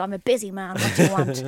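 a hint of a sinister devil. Retelling Pat Kenny as the devil, lightly voiced. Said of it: "swing around in his chair and go".

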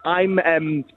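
broad Dundonian accent; thick local Dundee voice. Real, not acted. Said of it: "He doesn't speak that Dundonian when he's in here".

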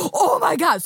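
high-pitched mock-panicked cry; retold panic. Man realising his keys are in the car, mock panic. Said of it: "han får ju panik".

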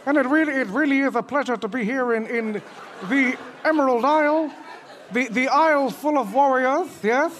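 Chris Eubank. Acted. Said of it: "Chris Eubank".

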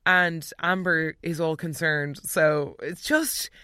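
ordinary talk

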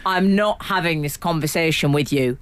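a hint of a curt brush-off; mock dismissive tone. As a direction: lightly imitate a cold dismissal. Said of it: "I'll tell you how you said it in the tone".

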